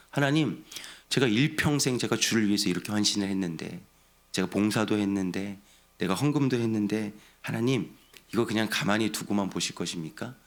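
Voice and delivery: mild petition, lifted on 하나님; lightly acted appeal to God; honest plea. Devoted believer petitioning God for help, mild plea. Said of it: "솔직한 마음으로 하나님께 한번 기도하시고".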